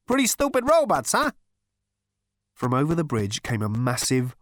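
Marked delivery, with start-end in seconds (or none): 0.1-1.3 chuckling. A narrator's reading. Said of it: "chuckled Zaphod".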